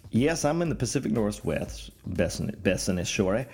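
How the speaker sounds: lightly hammed-up put-on country accent. Telling listeners about Bethany's text, in a mock country accent. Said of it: "I don't know why I adapted this accent".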